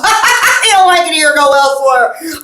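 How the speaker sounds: laughing, loud mock Indian accent; drawn-out Indian accent, cracking up; Indian woman's accent. Shown as a demonstration. Copying an Indian acquaintance, laughing Indian accent. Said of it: "copy some Indian woman I know".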